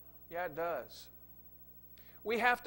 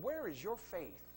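calm rebuke; 7 dB quieter, slower than usual. Acted. Jesus rebukes calmly.

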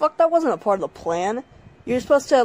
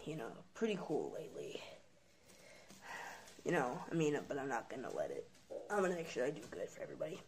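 much softer, half-whispered self-talk; hushed musing; 3 semitones lower, 12 dB quieter than usual. Acted. The god alone on a relaxing day, hushed musing. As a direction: murmur to yourself, content.

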